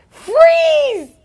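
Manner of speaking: high-pitched retold cry; acted-out urgent call; urgent warning. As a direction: stretch it out in high mock alarm.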